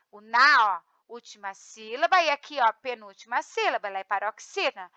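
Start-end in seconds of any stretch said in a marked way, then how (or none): 0.1-0.7 "na" said apart, loud and punched; tonic syllable shown. Shown as a demonstration. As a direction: hit the syllable "na" alone, clearly. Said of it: "porque, ó". (sílaba "na" destacada com força)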